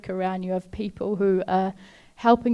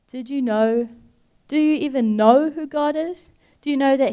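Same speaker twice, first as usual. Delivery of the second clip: rising, louder challenge; 4 semitones higher, 6 dB louder than usual. Real, not acted. Preacher challenging a grieving listener, higher and louder. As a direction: push the question up high and loud.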